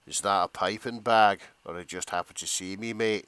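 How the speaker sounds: cheeky Scottish chef voice; Scottish accent. Pretend. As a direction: growl it out in a thick Scottish accent. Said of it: "you're gonna have to do this one in a Scottish accent".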